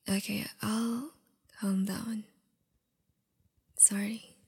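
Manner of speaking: ordinary talk, nothing marked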